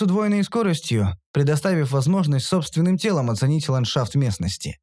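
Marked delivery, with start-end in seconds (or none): none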